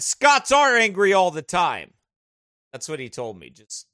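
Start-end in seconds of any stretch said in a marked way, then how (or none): 0.0-1.9 quoting a friend. Retold or imitated. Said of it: "Jason O'Brien said".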